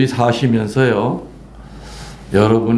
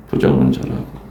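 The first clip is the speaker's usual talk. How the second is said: 부정론자라고 whispered, no voice at all; whispered repeat; 12 semitones lower than usual. Shown as a demonstration. Priest echoing the word 부정론자라고 to the congregation in a whisper. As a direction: breathe 부정론자라고 again under the breath.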